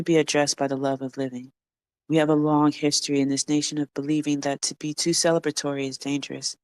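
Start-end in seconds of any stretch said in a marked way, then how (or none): 2.1-6.6 out of breath. Real, not acted. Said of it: "Sorry, lost my breath".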